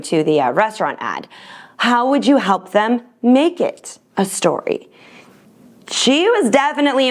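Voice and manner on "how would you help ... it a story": pointed, measured question in a mock-judicial tone. Daughter challenging her mom in a cab, judicial tone. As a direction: put it like a judge, imitating a daughter. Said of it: "asked in a judicial tone".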